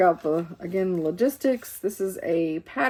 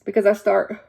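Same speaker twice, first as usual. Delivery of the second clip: talking through a yawn; words stretched by a yawn; 2 semitones higher, 8 dB louder than usual. Real, not acted. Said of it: "sorry, I'm yawning again".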